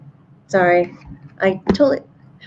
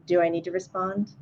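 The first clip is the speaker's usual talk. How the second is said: timid question; 9 dB quieter than usual. Retold or imitated. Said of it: "So Griffin is like".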